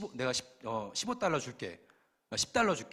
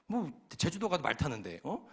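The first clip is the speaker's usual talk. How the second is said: ordinary talk, nothing marked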